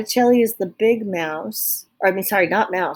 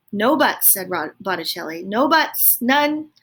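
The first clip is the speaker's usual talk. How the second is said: stern insistence. Acted. Botticelli insisting.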